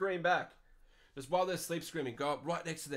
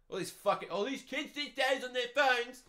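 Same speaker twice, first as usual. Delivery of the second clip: John Howard; 8 semitones higher than usual. Acted. Grumbling about kids and phones, accidental John Howard voice. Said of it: "I sounded like John Howard".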